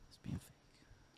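barely audible, slow whisper; whispered aside. Real, not acted. Friend grumbling aside about someone being fake, whispered. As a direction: whisper it slowly under the breath. Muttered aside after the argument.

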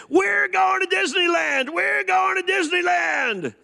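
put-on a child whooping with joy; excited child shout. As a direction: yell it with childish glee. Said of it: "she's shouting".

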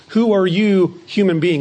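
emphatic challenge on "Who are you"; firm, punched "Who are you". Retold or imitated. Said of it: "Paul's emphatic at the beginning".

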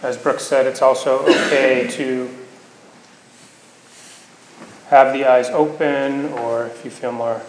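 unhurried meditation guidance with long pauses; guided meditation. Acted. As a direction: gently guide them into the body, leaving space between phrases.

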